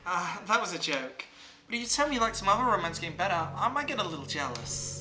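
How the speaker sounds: lightly voiced game girl. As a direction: read it lightly in the game girl's role. Reads game character's lines aloud.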